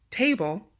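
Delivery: "table" with the first syllable stressed, TA-ble. Shown as a demonstration. Teacher giving quiz answer number one, TA stressed in "table". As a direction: lean on TA, let the rest of "table" fall. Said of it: "the T A is stressed".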